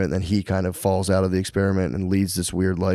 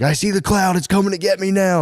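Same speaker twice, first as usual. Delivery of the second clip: put-on much higher child's voice; mock scared kid; 11 semitones higher than usual. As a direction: ham up a frightened little boy. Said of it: "he was like".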